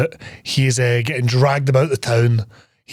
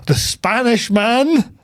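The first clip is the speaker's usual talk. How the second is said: slow, higher, drawn-out reveal; amused disbelief; 8 semitones higher, much slower than usual. Real, not acted. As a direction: stretch it out incredulously with a laugh. Mocking Connery's Spanish casting.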